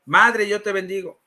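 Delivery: firm model blessing, lightly imitated; lightly acted priest's prompt; priest leading a repetition. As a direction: give the phrase out to be repeated. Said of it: "A ver, repite conmigo".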